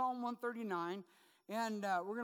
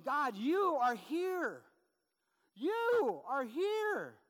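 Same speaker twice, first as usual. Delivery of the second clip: slow, louder, each word weighted; solemn declaration; 5 semitones higher, 7 dB louder, much slower than usual. Shown as a demonstration. Pastor voicing David's declaration to God, slow and louder. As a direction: proclaim it, very slow and loud. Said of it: "It's a declaration".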